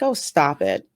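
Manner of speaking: lightly imitating a dismissive wife; unbothered. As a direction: brush off the husband's fuss, cool as can be. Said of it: "as cool as the other side of the pillow".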